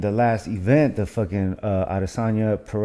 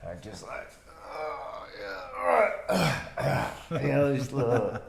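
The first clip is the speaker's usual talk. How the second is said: soft, loose vocal sighs, barely there; quiet mumbled loosening-up noises; lazy warm-up groans; 4 semitones higher, 9 dB quieter than usual. Shown as a demonstration. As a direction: demo a half-hearted warm-up with little oohs. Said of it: "this is my warm up".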